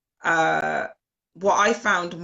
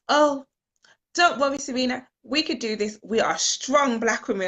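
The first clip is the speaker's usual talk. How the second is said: higher, louder cheery encouragement; upbeat pep talk; 6 semitones higher, 3 dB louder than usual. Retold or imitated. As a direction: gee her up like a friend leaving the house. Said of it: "she was like".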